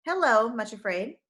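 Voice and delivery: cheerful, lifted hello; bright greeting. Acted. Shepherd greeting the frightened girl, bright cheer. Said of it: "the shepherd greeted her brightly".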